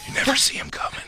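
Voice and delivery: spooky mock whisper. Co-host joking about the cult, mock whisper. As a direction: hush it like a secret cult. Joke about Ass Kickers Anonymous.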